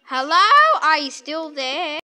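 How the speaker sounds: loud "hello" to get attention; calling out. Pretend. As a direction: call across the shop. Customer calls out to shopkeeper.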